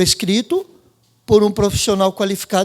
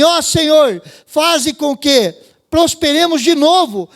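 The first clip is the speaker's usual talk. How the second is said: solemn scripture reading; 4 semitones higher than usual. Acted. Preacher reading the psalm to the congregation, solemn and lifted. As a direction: read the psalm like a proclamation. Reads Psalm 126 aloud.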